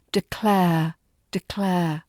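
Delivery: de-CLARE, lift the second syllable; stress on second syllable. Shown as a demonstration. Teacher modelling stress in declare. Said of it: "The second syllable here is the stressed one".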